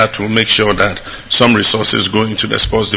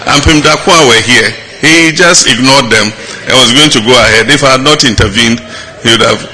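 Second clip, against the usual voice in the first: louder, higher, pressing the point hard; raised voice; 3 semitones higher, 3 dB louder than usual. Real, not acted. Emphatic raised voice. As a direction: president raises his voice at the unfair funding. President stresses unfair funding.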